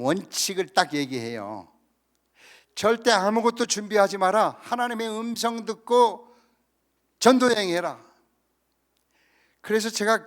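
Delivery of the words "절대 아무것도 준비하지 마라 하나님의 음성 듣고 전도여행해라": emphatic quoted rule. Retold or imitated. Quoting the mission trip rule.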